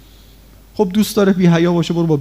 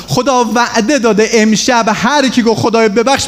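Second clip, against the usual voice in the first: fervent prayer; 6 semitones higher than usual. Acted. Slow raised fervent prayer.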